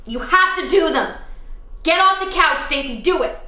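pushy coach shouts at herself on the couch; coach yelling. Acted. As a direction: bark at the couch potato. Yelling at self to get up.

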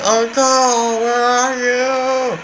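put-on high-pitched boy calling out; high kid voice. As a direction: call out in a young boy's voice. Voicing Link calling uncle.

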